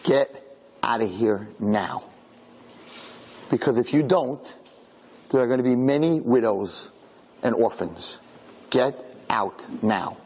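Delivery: low, slow, solemn command; slow it down and lay out the threat; grave warning. Retold or imitated. Rabbi warning the soldiers to leave the house, low and slow.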